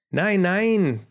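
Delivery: high, urgent protest; protestierend. A narrator's reading. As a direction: object at once, pitch jumping up. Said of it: "protestierte der Mause Philipp". (protestierend, mit hoher Stimme)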